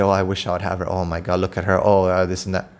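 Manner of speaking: hushed mock admirers; mock leering men. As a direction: mimic men ogling her, low and hushed. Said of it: "the men are gonna look at me and say".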